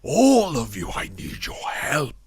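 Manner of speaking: high, anxious plea to the group; worried pleading. Acted. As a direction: beg them, voice straining with worry. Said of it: "does he seem worried".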